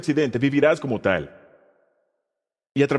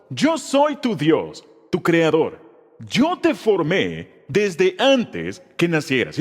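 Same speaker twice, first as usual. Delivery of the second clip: slow, deliberate recitation paced for the congregation to follow; slow recitation together; much slower than usual. Shown as a demonstration. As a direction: lead the verse slowly so everyone can say it along. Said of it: "Léelo conmigo".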